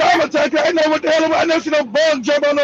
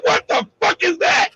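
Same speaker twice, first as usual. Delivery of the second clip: pitched up high in shocked alarm; startled outburst; 6 semitones higher than usual. Retold or imitated. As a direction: blurt it out like a scared kid. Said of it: "I said".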